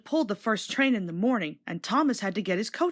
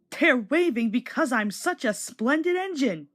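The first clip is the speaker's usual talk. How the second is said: important; 4 semitones higher than usual. Acted. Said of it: "he thought importantly".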